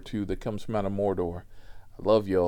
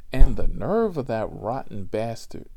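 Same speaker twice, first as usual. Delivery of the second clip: mock outrage; 8 dB louder than usual. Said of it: "Grandma laid into this man".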